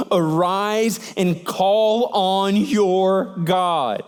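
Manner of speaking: drawn out, each word weighed; slow command. Acted. Captain rousing Jonah with God's words, slow. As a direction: rouse him slowly and deliberately. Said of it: "same instruction and command to rouse".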